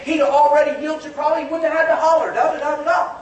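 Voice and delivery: mildly impatient, hurried patter; scolding bystander. Acted. Bystander telling Bartimaeus to hush up, mildly scolding. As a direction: lightly act the crowd talking him down. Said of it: "telling him to be quiet".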